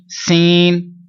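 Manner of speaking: सीन pushed into the nose; the wrong nasal सीन; nasal wrong sound. Shown as a demonstration. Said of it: "नाक में आवाज ले जाते हैं".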